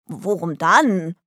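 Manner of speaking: slow question through soap foam; blubbering. A narrator's reading. Delly with soap in her mouth, slow blubbering. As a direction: mumble it round a mouthful of suds. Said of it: "blubberte Delly".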